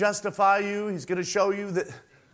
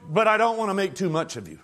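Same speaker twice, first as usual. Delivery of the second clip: Christ's voice; 3 semitones higher than usual. Acted. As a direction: speak as the Savior to his bride, fervent. Voices Christ speaking to bride.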